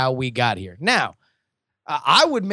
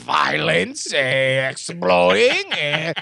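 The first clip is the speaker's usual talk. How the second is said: put-on Norwegian accent; 7 semitones higher, slower than usual. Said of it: "you'd say it in your Norwegian accent".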